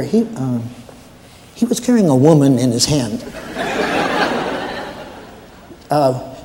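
hesitant, stammering night watchman; lightly voiced, deferential rookie guard; nervous new guard. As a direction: stumble politely through an awkward report to the boss. Plays a new guard phoning his boss.

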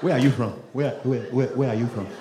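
insistent, repeated Nigerian questioning; Nigerian accent. Retold or imitated. Nigerian asking where are you from, insistent Nigerian accent.

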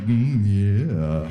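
mock seductive. Mock sexy reply to wife.

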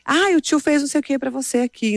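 kindly waiter. Retold or imitated. Waiter offering the grumpy girl a treat, imitated kindly voice. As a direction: coax a small child, lightly acted. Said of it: "falou alguma coisa pra ela assim".

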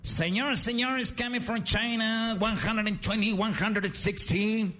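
high, slow mock ring announcer; high drawn-out mock ring announcer. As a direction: introduce the fighter with hype. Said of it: "fight announcer".

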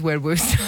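Wed Worcester with w for every R; can't say R's. Retold or imitated. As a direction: mimic a child's Wed Worcester for Red Rooster. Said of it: "struggled to say his R's".

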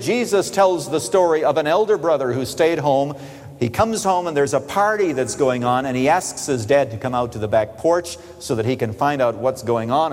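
usual speaking voice

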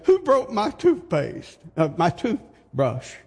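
high, baffled cry of who broke it; puzzled husband. Retold or imitated. A husband calling from the bathroom, baffled and high. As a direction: play the bewildered husband, voice jumping up. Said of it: "and he said".

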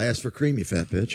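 low, grumbling complaint; low grumble. Retold or imitated. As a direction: grumble it deep and bitter. Voicing Tom in clip.

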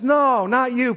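mock protest. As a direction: protest in playful mock surprise. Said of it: "The right response to that is".

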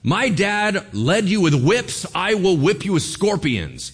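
loud, high, slow threat from a king; harsh royal threat. Retold or imitated. Young king threatening the nation, booming and slow. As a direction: lay down the threat like a cruel new king.

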